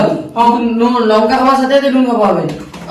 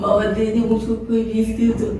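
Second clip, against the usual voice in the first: beggar voice. Acted. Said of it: "ভিখারি সেজেছে".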